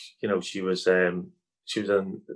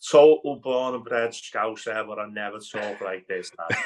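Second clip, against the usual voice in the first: exaggerated Scouse twang to make a joke of it; put-on Scouse accent. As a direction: play up the Liverpool accent like a proper Scouser. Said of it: "I only talk like this with one of my accents".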